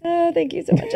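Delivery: put-on Boston accent. Mock gracious reply in accent.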